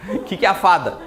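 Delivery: asked again through a laugh. Real, not acted. Teacher repeating a question to the class, laughing. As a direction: giggle your way through the question.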